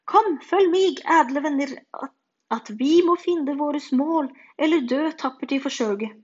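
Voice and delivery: loud, high heroic call to arms; rally the friends like a brave knight; knight's rallying cry. A narrator's reading. Knight rallies the children, loud heroic call.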